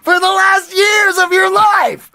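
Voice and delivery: high, loud, hammed-up scolding; exasperated mock yell. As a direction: shout it in comic disbelief, pitch way up. Retold scolding over making coffee.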